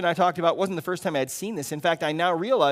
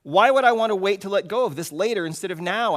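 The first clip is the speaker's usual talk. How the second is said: pleading; 4 semitones higher, 6 dB louder than usual. Acted. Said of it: "I pleaded".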